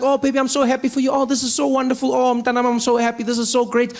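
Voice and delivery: gushing mom voice. Retold or imitated. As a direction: gush like a proud mom on the phone. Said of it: "She's like".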